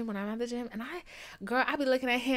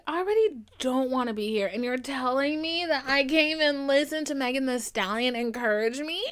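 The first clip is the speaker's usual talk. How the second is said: louder whiny protest; whiny complaint; 3 semitones higher, 5 dB louder than usual. Retold or imitated. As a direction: complain like a hurt child.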